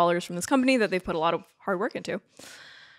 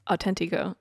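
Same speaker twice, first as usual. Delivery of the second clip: light mock Spanish accent; terrible Spanish accent. Host mocking own Spanish to co-host, bad Spanish accent. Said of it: "that was terrible".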